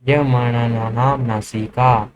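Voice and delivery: य म न न नाम नासिका recited slowly; slow recitation. Shown as a demonstration. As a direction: chant the sutra slowly for memory. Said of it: "नासिका से उच्चारित". (सूत्र को धीरे-धीरे रटाते हुए)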